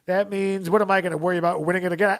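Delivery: mock boast. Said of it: "It's like".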